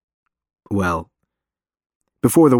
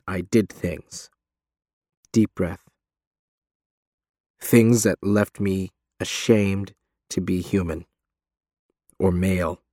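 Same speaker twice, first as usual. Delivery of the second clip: forlorn; 2 semitones lower than usual. Acted. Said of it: "He sounds forlorn".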